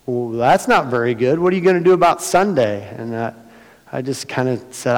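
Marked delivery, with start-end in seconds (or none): 0.1-2.9 mock concern. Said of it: "five people ask me".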